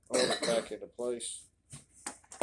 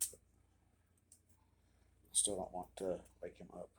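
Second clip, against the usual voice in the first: whispering over a crib; 4 semitones lower, 9 dB quieter, much slower than usual. Real, not acted. Baby asleep nearby.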